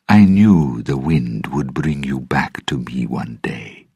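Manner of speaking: hushed, breathy fortune-teller; a hint of a knowing mystic; lightly voiced mysterious seer. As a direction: half-whisper it like a seer. Narrator voices Tia Dalma.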